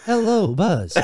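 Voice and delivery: shouted cat voice. Acted. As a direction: belt out the cat greeting. Repeating the voice louder.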